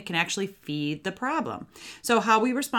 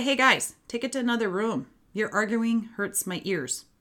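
matter-of-fact yet empathetic; 4 semitones higher than usual. Shown as a demonstration. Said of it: "matter-of-fact yet empathetic way".

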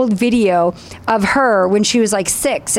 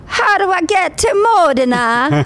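higher, keen question about "Modena"; eager tourist question; 7 semitones higher than usual. Retold or imitated. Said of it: "I'm like".

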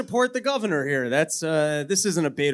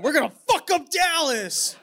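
high, hammed-up cartoon bravado with a laugh; mock cartoon war cry; Looney Tunes style; 9 semitones higher than usual. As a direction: play a riled-up cartoon hick, half laughing. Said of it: "Looney Tunes style just started going".

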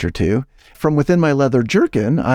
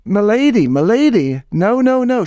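pleading courtly salesman; 10 semitones higher than usual. Acted. Salesman begs the landlady as she pushes him, high panicked pleading. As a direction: beg her off like a flustered Elizabethan gent. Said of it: "And I says".

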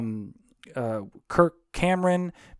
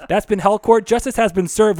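booming verdict; 5 semitones higher, 6 dB louder than usual. Pretend. Announcing mock courtroom verdict.

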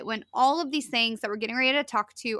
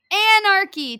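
anarchy repeated higher and louder; loud emphatic; 8 semitones higher, 8 dB louder than usual. Shown as a demonstration. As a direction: punch anarchy out loud and high.

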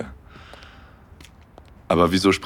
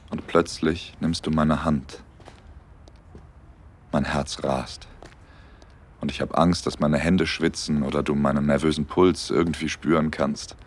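intimate story narration. A narrator's reading. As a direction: tell it gently like a romantic audio story.

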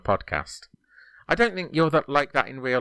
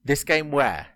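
"This game where" as a raised, separate chunk; three-word dictation; 5 semitones higher than usual. Shown as a demonstration. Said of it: "I'll do it three words at a time".

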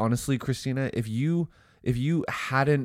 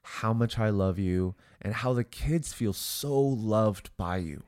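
sincere. Acted. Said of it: "hopefully you heard the sincerity in my voice".

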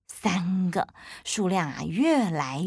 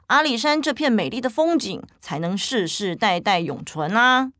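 parent voice; 4 semitones higher, 4 dB louder than usual. Acted. Parent explains to child.

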